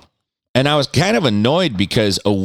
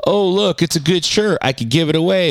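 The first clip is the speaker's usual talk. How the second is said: high, prissy mock voice of a do-gooder; sing-song caricature of someone who hates waste; 11 semitones higher than usual. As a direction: mimic the guilt-trip voice, pitched way up. Mocking a do-gooder.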